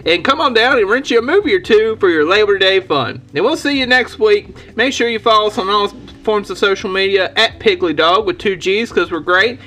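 upbeat local ad read; announcer sign-off. Acted. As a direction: pitch the store like a host. Sign-off store promo.

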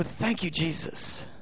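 very soft, low, slow thanks; hushed gratitude. Retold or imitated. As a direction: drop to a quiet, prayerful near-murmur. Quiet prayerful reply after mock horror.

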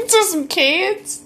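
laughing. Real, not acted. Listener laughing in disbelief.

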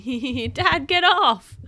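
giggling, high and loud; laughing. A narrator's reading. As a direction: squeal through giggles. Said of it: "And Bluey's laughing".

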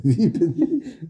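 slow, laughing groggy daze; dazed and confused. Pretend. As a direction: mumble it half awake and lost. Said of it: "sehr verwirrt".

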